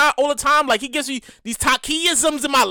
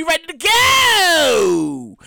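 hyped; 2 semitones higher, much slower than usual. Real, not acted. Hyping his favorite drink.

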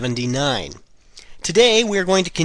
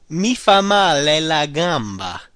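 slow, careful model phrase; slower than usual. Shown as a demonstration. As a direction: lay it out for learners. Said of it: "The first one is".

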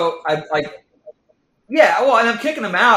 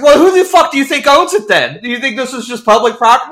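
retold angry retort; 4 semitones higher, 5 dB louder than usual. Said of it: "I'm cussing him out".

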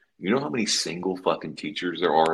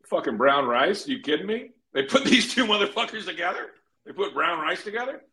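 incredulous mock outrage; 9 semitones higher than usual. Mocking teachers' names with dads.

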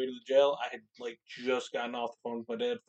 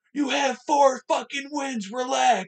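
higher, slow, loud taunt; taunting shout; 11 semitones higher, 6 dB louder, slower than usual. Retold or imitated. Fan taunting rival fans as they walk out, loud shout. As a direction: rub the loss in with a long yell. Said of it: "I go".

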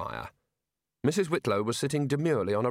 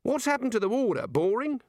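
much higher, insistent demand; irritable; 11 semitones higher than usual. A narrator's reading. The Arch-Chancellor demands answers from Rincewind, irritable. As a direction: press the question impatiently, pitched right up. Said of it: "waving a hand irritably".

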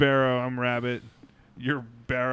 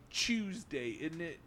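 mock British accent; 3 semitones higher, 11 dB quieter, slower than usual. Quoting a British meme to friends, mock British accent. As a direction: lightly imitate a British "chewsday". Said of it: "British thing".

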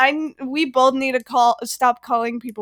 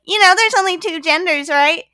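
higher, smug mocking tone; mocking quote; 4 semitones higher, 3 dB louder than usual. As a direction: sneer it like a know-it-all troll. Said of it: "they were like".

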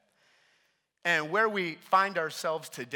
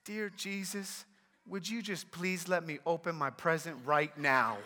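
put-on very soft little-kid prayer voice; child praying; 6 dB quieter than usual. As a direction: imitate a small child's hushed plea. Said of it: "we hear our daughter pray again".

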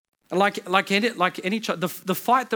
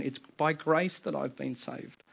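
quiet slow recitation; 2 semitones lower, 7 dB quieter, slower than usual. Shown as a demonstration.

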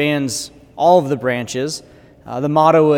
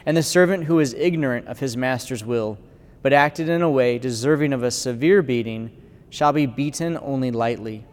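solemn proclamation of Scripture; gospel reading. Acted. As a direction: read it like at the altar, measured.

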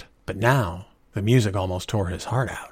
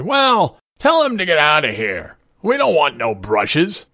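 loud, raised, scornful order; sneering drunk; 7 semitones higher, 6 dB louder than usual. A narrator's reading. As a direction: throw him out with drunken contempt. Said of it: "Art sneered".

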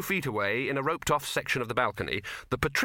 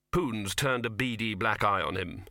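usual speaking voice

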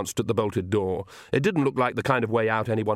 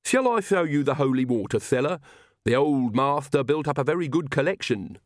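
higher, lisping proud retainer; lisping servant Igor, eager; 4 semitones higher than usual. Acted. Igor offers the witches a cellar tour, eager lisp.

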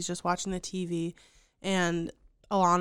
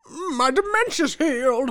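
mock cheerful old man; 7 semitones higher, 7 dB louder than usual. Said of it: "And he was like".

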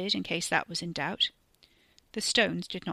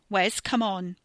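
urgent call; 4 dB louder, slower than usual. Acted. Carrie urging him.

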